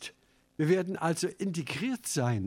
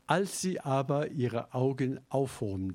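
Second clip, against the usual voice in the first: pathetisch vorgelesen, getragen; theatralisch. Shown as a demonstration. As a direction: wie ein Bühnenschauspieler deklamieren. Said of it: "das hört sich sehr theatralisch an". (theatralisch deklamiert)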